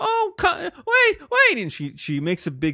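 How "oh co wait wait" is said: very high, drawn-out, frantic pleading cry. Retelling how a wife separated in a crowd made people stop: imitating a wife making a scene. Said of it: "big enough scene that people stop".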